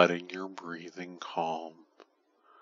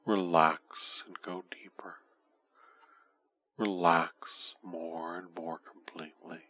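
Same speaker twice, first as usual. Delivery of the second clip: whispering. Acted. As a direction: breathe the words, voiceless. Whispered relax during induction.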